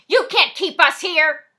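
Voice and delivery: loud, slow, defiant yell. Acted. Fat suit yells at Stormy, loud and slow. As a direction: shout it at the gunman, refusing to be held. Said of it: "the fat suit yells at Stormy".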